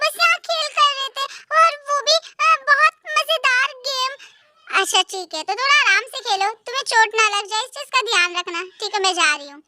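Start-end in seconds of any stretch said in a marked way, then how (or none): 4.8-9.6 lower, calm mom; a mother gently telling the kids to play carefully; mother's voice. Acted. Mom to the children before leaving, calm lower voice.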